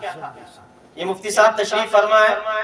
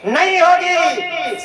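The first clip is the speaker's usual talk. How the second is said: emphatic answer; 6 semitones higher, much slower than usual. Real, not acted. Preacher answers his own question.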